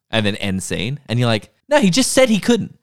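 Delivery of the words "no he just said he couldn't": high, exasperated protest; incredulous squeak of disbelief; exasperated viewer. Retold or imitated. Viewer yelling at the TV, high and exasperated.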